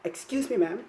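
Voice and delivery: a blunt, unsmiling Excuse me, ma'am; curt, rude way to get attention; impolite. Shown as a demonstration. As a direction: toss it off with no courtesy. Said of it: "that's very impolite".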